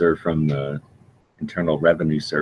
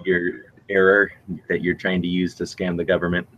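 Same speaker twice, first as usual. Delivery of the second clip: booming metallic robot; 2 semitones higher than usual. Pretend. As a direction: drone it like an automated government call. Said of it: "They don't call you with a robot voice".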